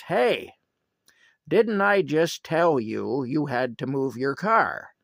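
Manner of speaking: high, loud angry call; retold angry challenge, high and loud; mad. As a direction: charge in and scold him for not moving. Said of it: "comes charging over to him mad".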